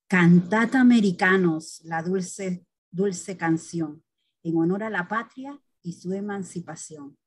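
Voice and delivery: declaiming a patriotic poem; poem recitation. Acted. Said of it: "voy a declamar".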